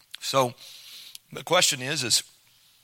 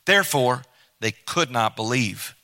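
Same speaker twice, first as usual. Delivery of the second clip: measured reading of the Bible passage; scripture reading. Acted. Preacher reading John to the congregation, measured reading voice. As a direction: read it out like a preacher reading the Gospel. Reads final passage aloud.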